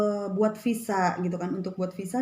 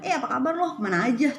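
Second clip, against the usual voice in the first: a lightly voiced Jakarta slang hello, pitched up at the start; casual Indonesian-accented greeting with a high opening; 4 semitones higher, faster than usual. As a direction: greet a friend the Jakarta way with a quick upward lift. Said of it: "logat kita tuh Indonesia banget".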